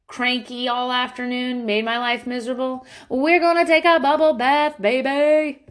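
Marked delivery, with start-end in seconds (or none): 3.1-5.7 high, louder sing-song mom voice; cooing to baby. Acted. Mother coaxing her cranky toddler into the bath, cooing. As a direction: coax a cranky toddler to bathtime.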